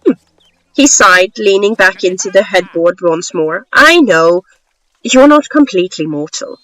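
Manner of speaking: story narration. Acted. Author reading a short story to listeners, story narration. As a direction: read it as a measured storyteller.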